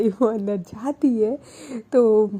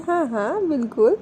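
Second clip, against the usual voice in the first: lightly voiced shy coyness; coy and a little bashful, teasing back; hint of a shy girlfriend teasing; a bit shy; 2 semitones higher than usual. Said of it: "थोड़ा सा शाय feel करते हुए बोलती है".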